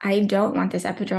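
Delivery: ordinary delivery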